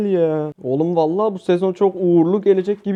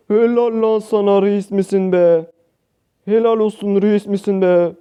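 excited praise; 4 semitones higher, 4 dB louder than usual. Real, not acted. Praising teammate after big play.

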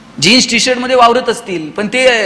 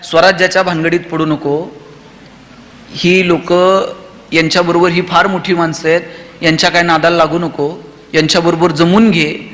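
cautious mother; 5 semitones lower than usual. Pretend. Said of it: "Jijau Shivaji राजांना म्हणल्या असत्या".

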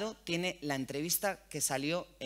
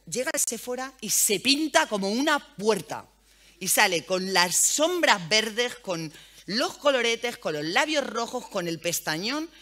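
louder, slowing down with delight on each item; amused excitement; 3 semitones higher, 6 dB louder than usual. Real, not acted. Mother telling the host about her son's makeup, excited and loud. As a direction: savour every bit of the son's made-up look.

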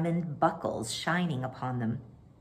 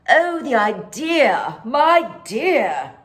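gushing gallery-goer; 6 semitones higher, 8 dB louder, much slower than usual. Acted. Gallery crowd gushing over pictures.

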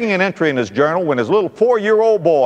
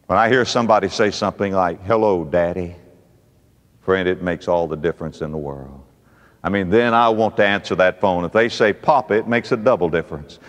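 low, soft, tender telling; hushed, low warmth; 10 semitones lower, 4 dB quieter than usual. Real, not acted. Touched by his children's phone calls.

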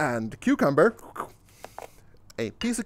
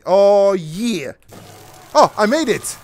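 loud, raised-pitch celebration; gleeful victory cry; triumphant; 4 semitones higher, 9 dB louder than usual. Real, not acted. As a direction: cheer at your own success. Celebrates finishing the order.

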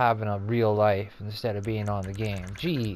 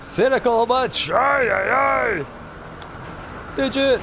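squeaky, much higher silly voice; playful high voice; 14 semitones higher, 6 dB louder, slower than usual. Real, not acted. Player joking to the game, squeaky and loud. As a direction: goof around in a high teasing voice.

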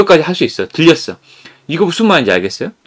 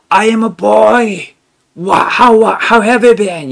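shouting like a singer; 8 semitones higher, much slower than usual. Retold or imitated. Crazy English teacher belting phrases at the spring, sung-out shouting. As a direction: belt each phrase out like a song at the mineral spring. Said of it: "이런 식으로 노래".

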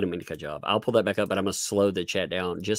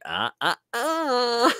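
stuttered "ah" ending high; mock robotic stumbling sound; imitated AI bot stammer; much slower than usual. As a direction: mimic a bot stuck on a vowel, last one drawn up high. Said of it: "when they go through, they'll be like".

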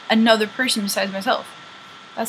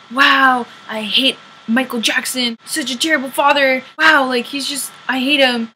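mocking hypocrite; 3 semitones higher than usual. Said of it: "I can mock them if they're hypocrites".

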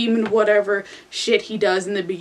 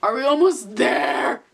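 yelling; 3 semitones higher than usual. Acted. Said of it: "I yelled to the heavens".

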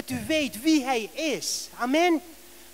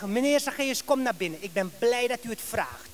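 lower, softer acted invitation; gentle welcome; 4 semitones lower, 6 dB quieter than usual. Man invites Zacchaeus inside, softly and low. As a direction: quietly usher a guest in, voice dropped.

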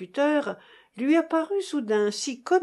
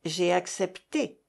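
calmly. A narrator's reading. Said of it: "dit-elle avec calme".

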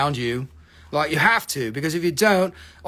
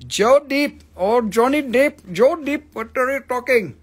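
mock pirate voice; 6 semitones higher, 4 dB louder than usual. Answering a viewer about Johnny Depp in a hammed-up pirate voice. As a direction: ham up a confused Depp.

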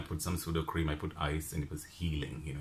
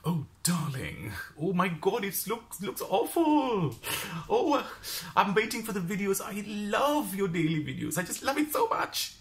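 gushing jewelry seller; 11 semitones higher than usual. Retold or imitated. Jewelry seller fussing over her face, high and gushing. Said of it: "she's like".

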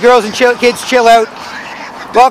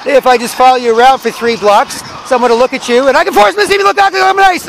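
mock zombie voice. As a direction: play the sketchy zombie sweet-talking a stranger. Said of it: "They're like".

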